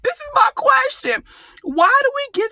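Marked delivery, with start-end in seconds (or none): 0.0-1.2 stopping short. Real, not acted. Stops herself to pose question.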